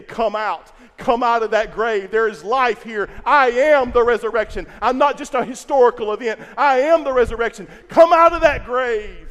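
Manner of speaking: loud commanding call, slowing at the end. Acted. Jesus calling every listener out of the grave, loud. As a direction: call them out of the grave with authority.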